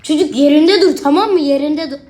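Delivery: loud, high scolding; stern order. Acted. Sitter orders the wandering baby to stay put, loud. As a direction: tell the baby off firmly.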